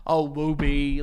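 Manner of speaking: put-on playful baby-talk to a child; cute dad talk. Dad being cute with his daughter, playful. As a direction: coo teasingly at your little kid. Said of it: "fun parenties dad talk with her".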